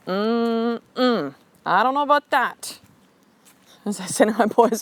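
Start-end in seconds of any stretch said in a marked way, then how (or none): 0.1-2.8 skeptical devil on the shoulder; a higher, lightly put-on voice of doubt. Shoulder devil discouraging the fighter, lightly acted doubt. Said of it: "then I got the devil going".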